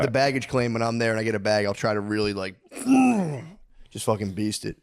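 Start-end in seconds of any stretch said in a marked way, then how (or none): 2.8-3.4 high-pitched straining noise; effort noise. Retold or imitated. Acting out hauling a bag off the carousel, high effort noise. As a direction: imitate a heaving effort sound.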